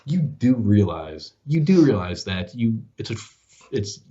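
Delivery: drawn-out, halting words of disbelief; slow, pointed correction. Retold or imitated. Dad correcting his son who just lived in France, slow and pointed. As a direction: spell it out slowly for a clueless son.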